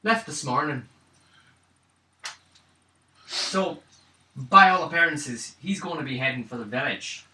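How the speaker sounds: deliberate character voice, slow in places; lightly voiced informant. Character warns party the elves move fast, lightly voiced informant. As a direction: give the warning as the knowing local.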